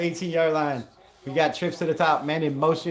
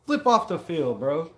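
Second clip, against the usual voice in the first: fed-up fan ranting at his own defender; frustrated; 5 semitones higher than usual. Real, not acted. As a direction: chew out the player through the screen. Frustrated at player on field.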